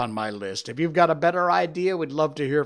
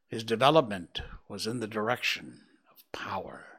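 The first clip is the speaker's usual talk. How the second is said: measured storybook reading voice; story narration. A narrator's reading. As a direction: read it like an audiobook narrator. Reads the novel aloud.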